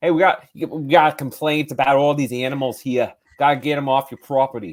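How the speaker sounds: put-on loose, not-so-good New York accent. Acting out a cop breaking up a farm animal party, bad New York accent. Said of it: "he inexplicably speaks in a New York accent".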